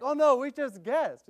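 high, loud and slow coy reply; teen's shy answer. Retold or imitated. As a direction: play it bashful and caught out. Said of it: "Oh, like".

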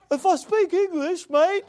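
mock Australian accent. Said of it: "The guy's Australian".

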